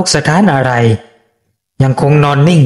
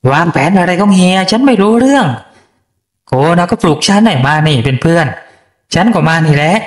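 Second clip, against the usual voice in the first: put-on young woman's voice; 3 semitones higher than usual. Woman denies plotting to lover.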